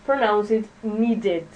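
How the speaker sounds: "needed" with an added syllable "-ded"; "needed", with the second syllable said clearly; model word. Shown as a demonstration. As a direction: spell out "needed" as need-ed. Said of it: "we're going to pronounce it".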